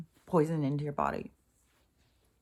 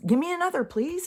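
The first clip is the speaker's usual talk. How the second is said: high mocking whine, much higher; mocking people; 10 semitones higher than usual. Mocking people who want more shots, in a high whine. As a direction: ham up a greedy beggar asking for more. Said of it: "people are just like".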